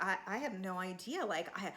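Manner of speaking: mock innocent Jessica. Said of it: "just dumb and innocent".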